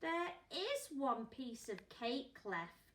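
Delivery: put-on slow, helpful child. Laura helpfully tells the parents there is cake left, slowly. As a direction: point it out slowly and kindly. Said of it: "said Laura in a helpful way".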